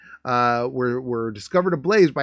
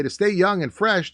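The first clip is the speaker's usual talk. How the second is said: mock ad read; 8 semitones higher than usual. Rising mock reading of old ad.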